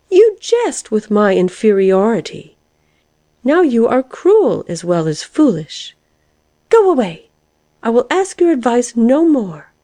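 high, wounded outrage; indignant. A narrator's reading. Caterpillar feeling mocked by the lark, indignant. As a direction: dismiss the lark in a high, offended voice.

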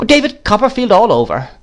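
high-pitched exclamation; crying out. A narrator's reading. Miss Betsy scorning the absent husband, crying out. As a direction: cry it out, pitched well up. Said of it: "cried Miss Betsy".

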